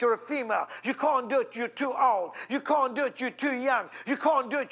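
repeated taunting chant, hammering can't; mock the doubters line by line; naysayers' refrain.

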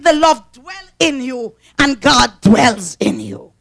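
slow, drawn-out scripture line; tearful preaching. Acted. Preacher slowly proclaiming love made perfect, voice breaking. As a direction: let the words cry out.

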